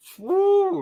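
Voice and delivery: loud, very high whooping woo.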